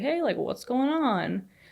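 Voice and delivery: chill, unbothered tone. Retelling how the security guy greeted the upset parents, imitating a very chill guy. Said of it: "it's just like this wicked chill".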